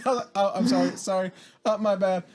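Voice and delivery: high-pitched mock apologies; fussy, exaggerated sorries while squeezing past; overly apologetic. Shopper edging past arguing families, overly apologetic. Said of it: "Just being overly apologetic for no reason".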